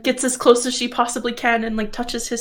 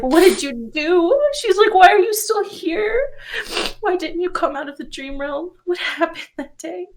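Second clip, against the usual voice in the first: urgent questions; 7 semitones higher than usual. Acted. Wife demanding answers from husband.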